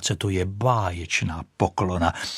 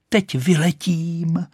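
higher, slow proud cry; 9 semitones higher, slower than usual. Acted. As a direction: announce it to the sky. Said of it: "křičela". (vyšší, pomalé pyšné zvolání)

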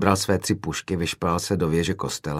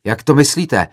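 higher, louder outraged question, stress on to; angry roar; 6 semitones higher, 7 dB louder than usual. Retold or imitated. Student roaring back at the director, retold anger. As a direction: hurl "Jak to myslíte?" as an offended challenge. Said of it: "zařval rozčileně jiný student".

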